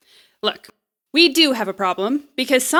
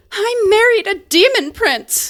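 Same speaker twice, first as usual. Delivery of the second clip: mock dreamy boast; 8 semitones higher, 4 dB louder than usual. Smug romance writer quip.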